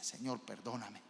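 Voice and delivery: soft, low humble prayer; humble plea. Acted. Preacher models a repentant prayer to God, humble and soft. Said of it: "con humildad".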